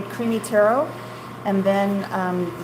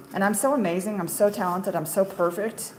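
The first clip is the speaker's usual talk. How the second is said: mock boastful. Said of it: "I'm not that amazing".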